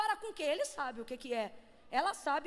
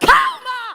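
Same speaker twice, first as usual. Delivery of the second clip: very loud, forceful, high, energetic shout; 9 semitones higher, 18 dB louder than usual. Showing how to calm a nervous person by shouting: shouted energetically. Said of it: "Mas se você falar".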